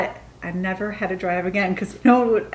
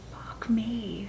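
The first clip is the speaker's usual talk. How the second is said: hushed, barely voiced curse; whispered dismay; 2 semitones higher, 8 dB quieter than usual. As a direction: swear under your breath as it sinks in. Muttered to self on realizing mistake.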